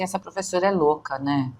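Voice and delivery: quick mock student muttering "Essa professora é louca"; fast teasing student quote; imitating a student. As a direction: rattle it off like a fed-up student. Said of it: "a pessoa fala assim".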